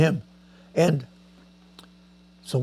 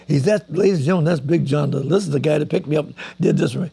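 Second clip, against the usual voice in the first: lightly announcing to the crowd, a bit louder; retold stage announcement; 3 dB louder than usual. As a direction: present him to the whole hall. Star introduces friend to audience.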